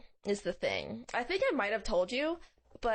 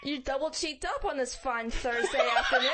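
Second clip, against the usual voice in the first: laughing; 4 semitones higher than usual. Pretend. Mock greeting to passerby, laughing shout.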